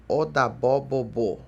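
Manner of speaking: slow, clearly sounded out Odabó bobô; demonstrated pronunciation. Shown as a demonstration. Teacher models the farewell phrase for students, slow careful pronunciation. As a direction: say Odabó bobô slowly, stressing each final syllable. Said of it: "mas pronuncia-se bobô".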